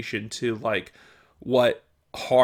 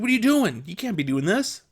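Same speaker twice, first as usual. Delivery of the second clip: imitating angry boss; 8 semitones higher than usual. Boss snapping at worker collecting nails, mock-angry and raised. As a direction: play the irate boss scolding you. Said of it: "And he got mad".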